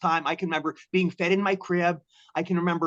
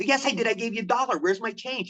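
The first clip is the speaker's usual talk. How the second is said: higher-pitched, mildly indignant protest; a touch of bewildered indignation; mild retold protest; 6 semitones higher than usual. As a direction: plead your case, lightly acted. Acted argument with the hustler.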